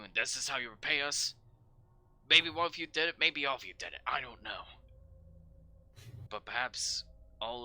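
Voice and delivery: stern interrogating sergeant; angry sergeant. Acted. Sergeant demanding the saboteur confess, stern. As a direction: press them for a confession. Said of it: "points to you all and says".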